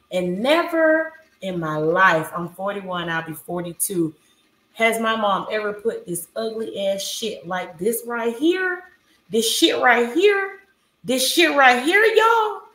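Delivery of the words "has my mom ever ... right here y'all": loud, rising disbelief; building outrage, voice climbing; outraged. Real, not acted. Outraged rant about ugly bow.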